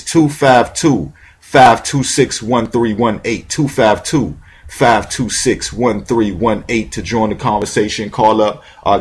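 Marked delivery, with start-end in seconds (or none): 0.0-6.9 slow, spaced-out digits for callers; slow number dictation. Real, not acted. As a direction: spell out each digit slowly so callers can dial. Radio host reads call-in number.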